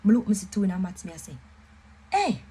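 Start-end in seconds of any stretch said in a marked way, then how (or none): 2.1-2.4 a sudden, much higher cry of delight; surprised exclaim. Retold or imitated. Seeing her maths grade online, a sudden high surprised "Hey!". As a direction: yelp it out like you can't believe the grade.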